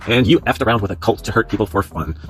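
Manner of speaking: punchy, insistent read-aloud; reading a stern post. Acted. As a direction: read it out as a firm telling-off.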